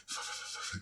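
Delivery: voiceless, hushed teeth-chatter noise; imitated chattering. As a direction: imitate someone chattering, no voice, very soft. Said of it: "He's, like, chattering".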